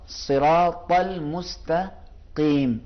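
slow, thick-lettered صراط المستقیم; heavy qaf. Shown as a demonstration. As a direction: stretch صراط المستقیم, thick back-throat ق in مستقیم. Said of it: "کیم نہیں پڑھیں گے".

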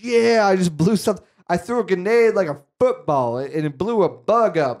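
lightly hammed-up excited boast; mock celebrating. Diz after blowing up a bug, mildly excited bragging. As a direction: crow about it, starting high.

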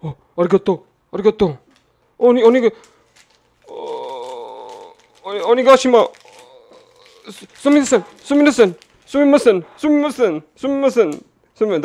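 put-on high, loud southern-accented Japanese phrases; hammed-up southern accent on repeated yelps of Japanese; mock southern accent. Streamer imagining the card maker apologizing, hammed-up southern accent. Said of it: "southern accent and be like".

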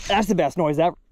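ordinary talk, nothing marked

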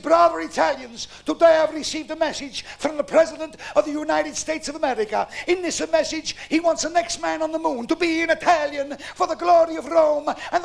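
high-pitched grand papal address; roman orator. Acted. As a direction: proclaim it like a pope from a balcony. Pope addresses Vatican crowd.

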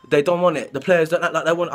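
put-on half-hearted go at Sarri's Italian accent; badly faked Italian accent; attempted Sarri accent. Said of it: "I can't do his stupid accent".

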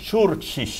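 ชูร์ชิช with CH for each C; every C in ชูร์ชิช read as CH; Serbian pronunciation. Shown as a demonstration. Host repeats the correct name, ชูร์ชิช. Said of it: "ตัว C อะเป็นชอช้างให้หมด".

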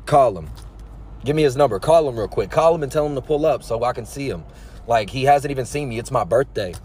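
a hint of an eerie stranger, dead calm and insistent; deadpan stalker. Stalker at the tattoo shop demanding to see Rome, lightly voiced and deadpan. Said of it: "with a straight face and says".

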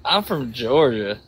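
put-on Southern accent. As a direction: lay on a Georgia Southern accent. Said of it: "I got that southern accent and that dialect".

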